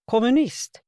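loud, high indignant cry; shocked accusing shout; outraged yell. A narrator's reading. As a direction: spit the word out in outrage. Old man defends shop owner.

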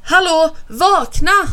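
high, loud wake-up call. A narrator's reading. Bo wakes sleeping Alf, calling out. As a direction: rouse a sleeping friend. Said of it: "ropar Bo".

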